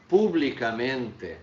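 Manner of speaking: Publicamente drawn out, stress on men; slow model word. Shown as a demonstration. Teacher models Publicamente slowly for students. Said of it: "E vejam que a minha pronúncia".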